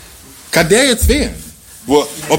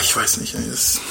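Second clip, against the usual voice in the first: breaking into a whisper; 6 semitones lower, 8 dB quieter than usual. Acted. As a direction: whisper it, lost for words. Paulus voiced, torn and overwhelmed.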